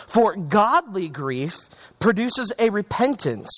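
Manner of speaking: slow, deliberate Bible reading; scripture reading. Acted. Preacher reading Paul's letter to the church, deliberate scripture reading. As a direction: read the verse out with measured weight.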